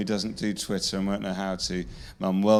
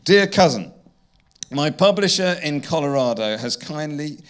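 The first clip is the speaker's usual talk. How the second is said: reading aloud; 5 semitones higher, 5 dB louder than usual. Acted. This is just entitled A Note.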